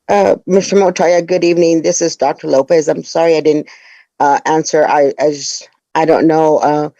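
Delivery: groggy and drained after surgery; weak after surgery. Real, not acted. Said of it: "I'm a little bit out of it".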